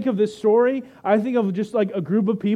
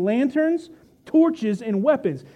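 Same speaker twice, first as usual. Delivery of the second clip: higher-pitched list, building to the climax; rising alarm; 5 semitones higher, slower than usual. Acted. Preacher to congregation, Judas arriving with soldiers, higher and urgent. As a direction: throw each item out in mounting alarm. Climactic relisting as betrayal is revealed.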